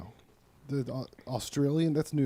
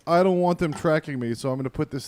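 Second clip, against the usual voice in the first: mocking voice; 2 semitones higher, 3 dB louder than usual.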